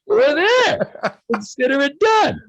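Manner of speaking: high, shouted eager agreement; excited shout. Retold or imitated. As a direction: shout it out, thrilled by the deal. Accepting a doubled pay offer.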